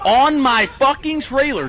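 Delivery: high, loud laughing disbelief; laughing outrage. Real, not acted.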